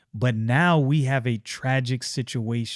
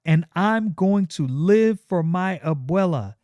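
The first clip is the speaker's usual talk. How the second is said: raised-pitch hateful farewell; high, angry Stefania; 6 semitones higher than usual. Acted. Stefania rejects Yaira as she runs, high and bitter. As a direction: spit the goodbye.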